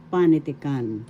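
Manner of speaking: PA stressed in "panitikan"; stress on first syllable. Shown as a demonstration. Teacher modelling the word for learners, PA stressed in "panitikan". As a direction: lean on the opening PA of "panitikan". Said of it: "So that's how you pronounce".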